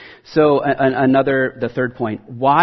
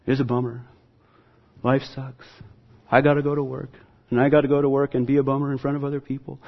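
softer, sulky Monday-morning moaner; mopey grumbler; 3 dB quieter, faster than usual. Retold or imitated. Preacher mocking a gloomy worker, mopey and softer. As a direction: sigh it out like someone dreading work. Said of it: "Rather than waking up tomorrow morning and saying".

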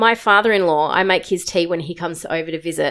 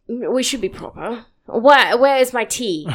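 mock posh lady; 5 semitones higher than usual. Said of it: "Who are you, the Queen?".

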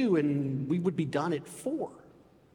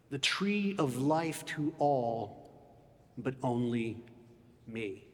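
poem recital; slower than usual. Retold or imitated. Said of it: "He says".

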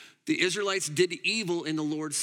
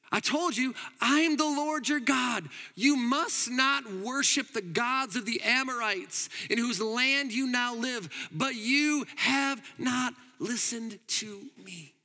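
a lightly raised voice of God, slowed; God speaking; 5 semitones higher than usual. Acted. God reminding Israel, a touch stern and slowed. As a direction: deliver it as a gentle divine reproach. God's voice quoted from scripture.

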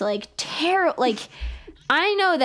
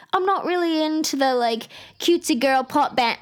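higher-pitched English-accented douchebag impression; mock English accent; 6 semitones higher than usual. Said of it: "douchebag with an English accent".

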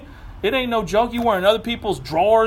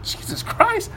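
incredulous; 2 semitones higher than usual. Retold or imitated. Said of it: "Festus is like".

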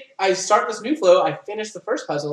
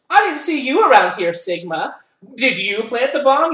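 higher, louder accusing question; mock accusing; 5 semitones higher, 5 dB louder than usual. Clover accusing Sigma of planting the bomb, mock suspicious.

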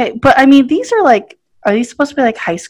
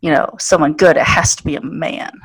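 deadpan mock-serious explanation, pitched low; low-pitched tongue-in-cheek mansplaining; sarcastic; 5 semitones lower, faster than usual. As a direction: explain it with dry mock sincerity. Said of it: "All of this is sarcasm".

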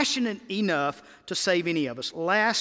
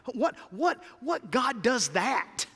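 rising wonder; 5 semitones higher, 5 dB louder than usual. Acted. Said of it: "Micah is asking".

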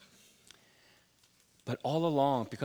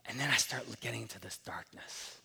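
whispered, softer confession; hushed; 7 dB quieter than usual. Real, not acted. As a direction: drop into a hush for the darkness. Dark moment in sermon.

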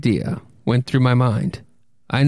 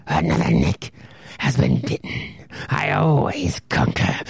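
much lower, half-whispered gloating; gloating monster; 8 semitones lower, 3 dB quieter than usual. Acted. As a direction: savor each word of the kill. Monster gloats over its victim.

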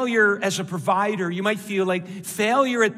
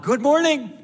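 higher, louder call to the crowd; rousing greeting; 7 semitones higher, 5 dB louder than usual. Real, not acted. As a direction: call out for a response. Prompting congregation to respond louder.

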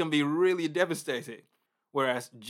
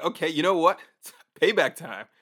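mock vengeful glee; 5 dB louder than usual. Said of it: "be like".

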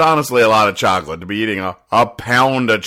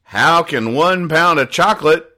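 mock crying; 8 semitones higher, 4 dB louder, slower than usual. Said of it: "And she's crying".

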